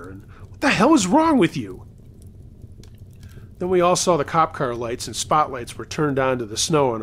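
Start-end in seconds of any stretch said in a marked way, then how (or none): 0.5-1.8 raised, high-pitched outraged question; yelling. A narrator's reading. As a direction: narrate a dad yelling from the porch. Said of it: "my dad was running out onto the porch yelling".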